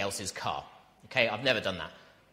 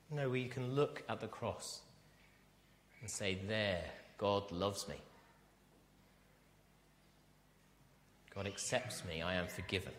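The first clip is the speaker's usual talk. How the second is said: much softer, intimate sermon voice; hushed preaching; 9 dB quieter than usual. Acted. Preacher to his church, soft and intimate.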